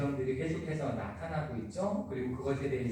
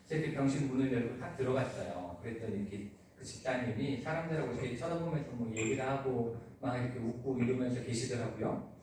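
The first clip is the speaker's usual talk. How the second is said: normal talking voice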